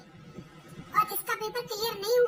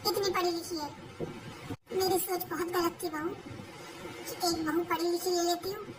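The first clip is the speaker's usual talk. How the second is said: lower, gentle apologetic voice; a mother asking forgiveness; remorseful mother; 3 semitones lower than usual. Acted. Mother-in-law repents tenderly. (पछताती माँ की नरम आवाज़)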